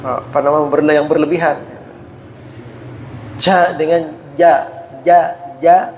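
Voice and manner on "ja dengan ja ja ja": "ja" said once breathy, once clean, slowly; contrasting ja sounds. Shown as a demonstration. Teacher contrasts aspirated and clean "ja". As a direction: compare a puffed "ja" with a clean "ja". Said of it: "Nah, beda".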